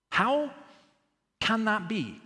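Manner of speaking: high, drawn-out incredulous question; baffled protest. Acted. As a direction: ask it in pained bewilderment, pitched high. Voices baffled protest at suffering.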